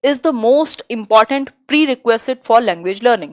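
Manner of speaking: slow, deliberate exam-question read. Acted. Teacher slowly reading the question to the class. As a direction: spell out each word for students.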